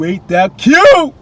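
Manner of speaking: drawn-out high fawning squeal; gushing squeal. Shown as a demonstration. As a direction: coo it like it's the cutest thing ever.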